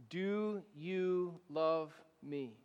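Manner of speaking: slow, hushed, lightly voiced Jesus question. Jesus asking Peter, slow and tender. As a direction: ask it gently, drawn right out. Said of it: "hear our Lord ask".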